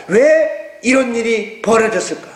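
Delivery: slow, inward wondering; 천천히 스스로 묻듯이; musing question. Shown as a demonstration. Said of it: "땅의 것을 보지 말고".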